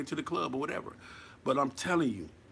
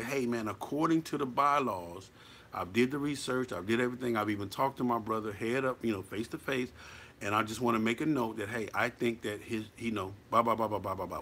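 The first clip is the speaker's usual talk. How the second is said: calm proud statement; 4 semitones lower, 4 dB quieter than usual. Shown as a demonstration. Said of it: "stand up proudly as a man".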